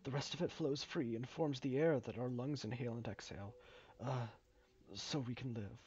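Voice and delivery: lightly voiced game character explaining the job; a hint of a halting, polite foreman; hesitant mine worker. Reads mine worker's explanation aloud.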